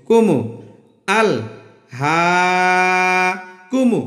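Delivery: কুমু with quick unstretched vowels; crisp কুমু without any drawl; short syllables. Shown as a demonstration. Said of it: "টান দিলাম না".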